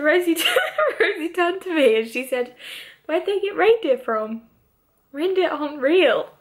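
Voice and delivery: laughing through the words. Real, not acted. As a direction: giggle while telling it. Laughing while retelling.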